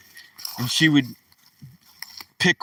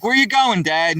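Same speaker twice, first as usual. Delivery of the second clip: curious daughter; 5 semitones higher than usual. Retold or imitated. Daughter voiced in story.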